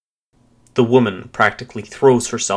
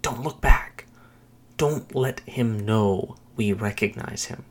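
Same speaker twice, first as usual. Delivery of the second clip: tense, restrained hiss; hissed through teeth; 4 dB quieter than usual. A narrator's reading. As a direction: warn urgently through clenched teeth. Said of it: "She hisses through her teeth".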